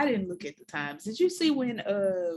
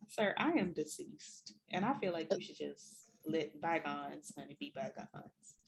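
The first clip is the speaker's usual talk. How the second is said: soft, slow dying-away voice; quiet slow mock faint; 4 semitones lower, 11 dB quieter than usual. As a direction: fade out like you've passed. Mock dramatic fading.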